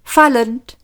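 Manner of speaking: put-on high, slow girl's announcement. A narrator's reading. Girl's voice calling out new odds, high and slow. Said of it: "Wieder war die Stimme zu hören".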